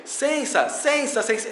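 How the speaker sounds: sensa, high and clipped from dá licença; fast slurred sensa. Retold or imitated. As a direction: mimic a bus passenger's quick sensa. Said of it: "a pessoa vem".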